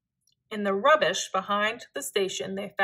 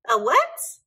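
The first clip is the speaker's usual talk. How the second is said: louder, muffled question from under the snow; muffled from inside snow; 4 semitones higher, 7 dB louder than usual. A narrator's reading. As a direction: ask it as if buried in a snow pile. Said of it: "asked Hugo from deep inside the snow".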